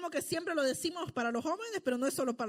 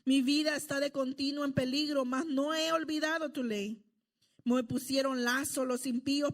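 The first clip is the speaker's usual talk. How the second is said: scripture reading. Acted. Reads psalm aloud to congregation.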